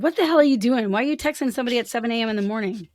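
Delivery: loud, indignant mock confrontation; angry. Woman voicing what anger would say to the texter, indignant. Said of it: "that anger would have said".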